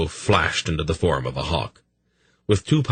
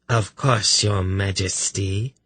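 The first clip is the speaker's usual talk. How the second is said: purring; 2 semitones higher, slower than usual. Acted. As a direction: purr the words, silky and slow. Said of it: "she replied in a voice that was nearly a purr".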